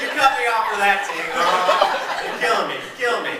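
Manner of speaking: hammed-up protest at the driver; exasperated. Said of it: "I'm like".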